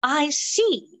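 hammed-up British indignation, slowing at the end; London accent. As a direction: object haughtily in a London accent. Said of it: "I'll do the London accent".

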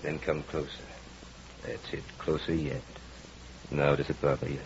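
insistent, swelling hypnotic voice; hypnotist's commands. Acted. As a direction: pull her in with every command. Hypnotist commanding the entranced wife.

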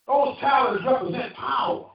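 calling out the eagle's power; rally him with a shout; a preacher voicing the eagle with a shout; shouted exhortation.

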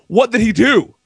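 mock-outraged question, laugh creeping in; retold yelling. Husband confronting his wife about the plumber, retold yelling. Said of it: "Why are you yelling at me".

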